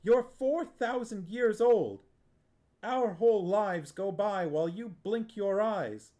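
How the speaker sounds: put-on a boy pouring out years of resentment at his aunt; furious tirade. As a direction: let the anger run away with you.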